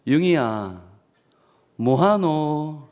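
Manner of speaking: put-on slow, drawn-out Gyeongsang-dialect call to a boy; a hint of a Gyeongsang elder telling a boy to go to bed. Pastor imitating God's voice in Gyeongsang dialect, slow and drawn out. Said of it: "그 음성은 이런 음성이었어요".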